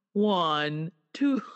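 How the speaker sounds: slow mock-British count; attempted British accent. Imitating an actress slipping into British, attempted British accent. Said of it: "start counting all British".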